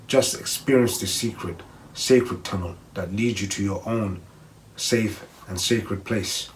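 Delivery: calm, measured meditation reading voice; guided meditation read. Acted. Vlogger reading a safe haven meditation to viewers, calm guided voice. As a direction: ease the listener gently down the path.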